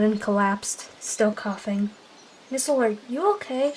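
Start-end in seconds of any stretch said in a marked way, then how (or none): 2.5-3.7 higher, softer, quick question; worried. A narrator's reading. She-cat checking on her coughing leader, softly worried. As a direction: ask with soft, anxious concern. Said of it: "she asked, worried".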